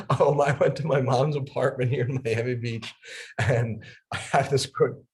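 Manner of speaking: telling the day through giggles; laughing while talking. Shown as a demonstration. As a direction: keep laughing as you tell it. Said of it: "Just talk about your day".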